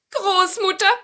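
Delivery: high, loud witch. Acted. Witch turns to grandmother for help, high witch voice. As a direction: address her in a high-pitched witch voice. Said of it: "sagte die Hexe".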